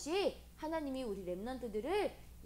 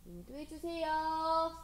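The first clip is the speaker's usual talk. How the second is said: emphatic prayer, slowing at the close; confessional prayer; 2 semitones higher than usual. Shown as a demonstration. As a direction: lead children in an earnest plea to God. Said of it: "고백하는 거예요".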